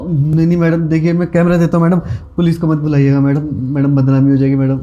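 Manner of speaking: urgent, repetitive appeal; anxious pleading. Acted. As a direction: plead with her not to do it. Student begs her not to call police.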